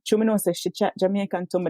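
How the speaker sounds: quick, easy Jamaican Patois in mid-sentence; casual Jamaican code-switch. Shown as a demonstration. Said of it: "just switching to Jamaican".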